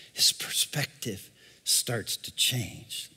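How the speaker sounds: slow, soft whisper. Shown as a demonstration. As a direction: let the words drop to a hush. Hushed sermon point.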